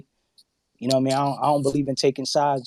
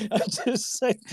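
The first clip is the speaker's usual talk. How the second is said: softer, slower, chuckling through it; laughing aside; 9 semitones higher, 4 dB quieter, slower than usual. Real, not acted. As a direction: laugh it off under your breath. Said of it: "Not to stereotype".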